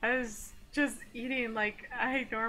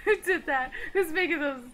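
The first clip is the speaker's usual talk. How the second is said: panicked high yelling through laughter; screaming in fear; 7 semitones higher, 10 dB louder than usual. Acted. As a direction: shout like you're terrified. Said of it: "I'm yelling because I'm scared".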